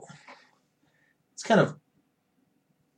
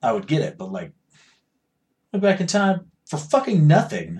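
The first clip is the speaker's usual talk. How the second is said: usual speaking voice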